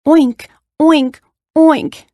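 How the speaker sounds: high, punchy oinks; squealing pig. A narrator's reading. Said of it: "each of the animals joined in".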